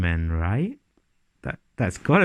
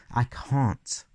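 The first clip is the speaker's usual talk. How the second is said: quiet; 6 dB quieter, much slower than usual. Real, not acted. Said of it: "I can't wait for them".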